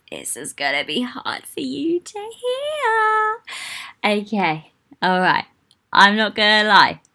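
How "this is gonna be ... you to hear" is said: whisper. Acted. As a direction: lean in and whisper the bad news. Bracing listener for hard news.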